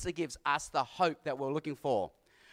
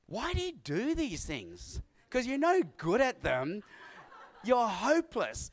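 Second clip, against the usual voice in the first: higher-pitched imitation of a scolding wife; mock a wife's telling-off, pitched up; quoted exasperated wife; 5 semitones higher than usual. Wife to runner in the car ride home, imitated exasperation. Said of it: "she said".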